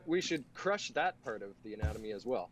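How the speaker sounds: loud mock-outraged proclamation; sarcastic shout. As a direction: shout it like a fake crusader. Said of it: "You can only pull sarcasm for so long".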